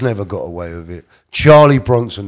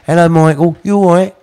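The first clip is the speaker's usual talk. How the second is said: high, louder lisping voice; Reggie impression; 7 semitones higher, 6 dB louder than usual. Reg greeting Michael, lisping high-voiced impression. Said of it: "Reg spoke with a lisp, he spoke like that".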